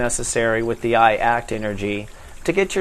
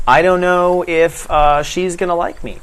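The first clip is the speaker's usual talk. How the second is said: anxious inner worry; 4 semitones higher, 4 dB louder than usual. Shown as a demonstration. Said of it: "the whole conversation inside your head".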